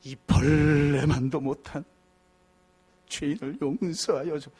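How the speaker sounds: low, slow, abject prayer; humble prayer voice. Retold or imitated. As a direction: pray like a worm before God. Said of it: "우리 기도할 때 뭐라 그래요?".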